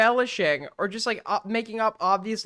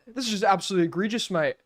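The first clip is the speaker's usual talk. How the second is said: rushed, half-hearted Australian-sounding mimicry; failed Australian-sounding impression; much faster than usual. Second try at mimicking a streamer, still lightly Australian-sounding. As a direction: rattle it off in a botched Australian accent. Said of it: "No, that's Australian too".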